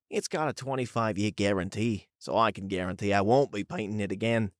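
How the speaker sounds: lightly put-on Aussie voice; amateur Australian impression of a coworker; attempted Australian accent. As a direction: have a go at a casual Aussie accent. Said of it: "not sure how good that accent was".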